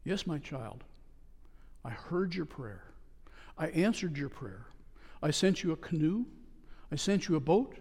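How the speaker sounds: patiently explain, quiet and kind; God's voice. Acted. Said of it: "God looked at him and said".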